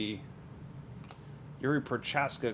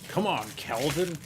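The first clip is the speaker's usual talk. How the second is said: imitating Adesanya; 3 semitones higher than usual. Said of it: "in the way Adesanya used to say his name".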